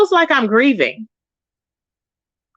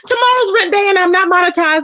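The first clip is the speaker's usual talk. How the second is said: mock crying; 6 semitones higher than usual. Laughing mock cry about rent.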